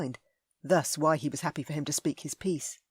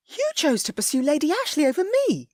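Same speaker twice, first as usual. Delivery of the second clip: high, loud indignant lady; Ellie, furious; 11 semitones higher, 7 dB louder than usual. A narrator's reading. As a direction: cut him off in a rage. Ellie accusing.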